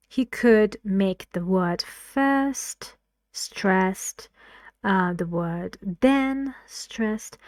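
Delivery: slow, each word "first" and "then" hit hard; every content word stressed. Shown as a demonstration.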